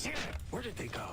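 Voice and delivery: frantic high angry shout. Acted. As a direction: snap it out in a panic. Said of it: "he sounded so mad".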